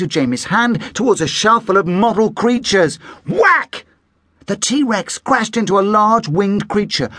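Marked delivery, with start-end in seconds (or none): 3.3-3.9 high punchy sound word; sound effect. A narrator's reading. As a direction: hit it like a crash.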